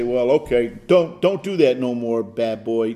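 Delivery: mock weak scolding of a naughty pet; a limp, unconvincing telling-off; half-hearted scolding. Shown as a demonstration. Pastor showing the wrong way to refuse, half-hearted mock scolding. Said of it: "Don't, not like that".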